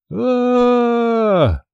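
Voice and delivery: a long, very high held scream of terror; long terrified scream. Acted. Boy screaming as the logging truck rushes at them, long high scream. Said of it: "я так вопил?".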